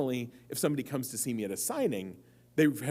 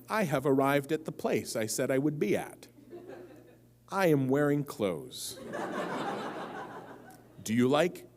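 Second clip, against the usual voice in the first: lightly acted, stilted small talk; awkward first date; 2 semitones higher than usual. Dater proving they are no sociopath, mildly stilted and awkward. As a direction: recite it like a socially clueless dater, pitch lifting on the question.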